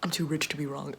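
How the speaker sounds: usual speaking voice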